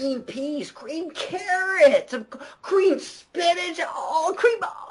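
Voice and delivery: high excited yelps listing answers; excited shouting. Real, not acted. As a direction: cry out each answer in thrilled disbelief.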